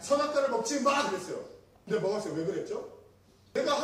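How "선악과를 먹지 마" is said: louder, higher forbidding voice; lightly acted stern order; emphatic command. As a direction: declare a firm prohibition. Acting out God's command in Eden.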